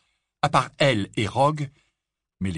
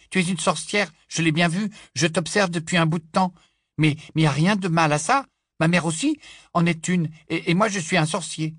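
higher, louder rushed stammer; excited nervous boy; 8 semitones higher, 5 dB louder than usual. Acted. Nervous boy convinces the girl, excited and stammering. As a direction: pour it all out.

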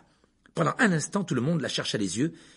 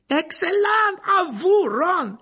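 loud, high shout of praise; cheer, then call up the next pupil; excited call; 7 dB louder, much slower than usual. A narrator's reading. Lupin calls the next pupil. (cri enthousiaste, fort et aigu)

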